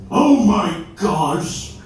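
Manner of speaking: slow, high, loud wizard cry; Gandalf outraged. Acted. Gandalf over Boromir's death, slow loud anguished cry. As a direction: wail it like a grieving wizard. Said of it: "and Gandalf goes".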